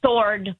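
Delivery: sword with silent w; slipped pronunciation. Shown as a demonstration. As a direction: say sword as SORD. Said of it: "it comes out".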